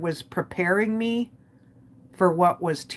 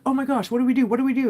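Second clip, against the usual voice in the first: higher-pitched mild mock panic; retold freak-out; 6 semitones higher, 3 dB louder, much faster than usual. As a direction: imitate a brother starting to panic, voice raised in pitch. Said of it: "looked at me and freaked out".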